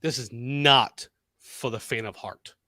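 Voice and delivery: wrestling announcer calling a matchup; deliberate ringside announcer delivery; wrestling commentary. Pretend. Live wrestling play-by-play call.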